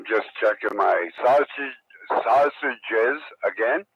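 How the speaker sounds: toothless, lips over gums; words mushy with no teeth in; talking with no teeth. Real, not acted. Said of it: "it's hard to talk with no teeth".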